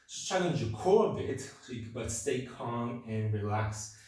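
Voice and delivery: out of breath. Real, not acted. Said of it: "I'm going a bit out of breath".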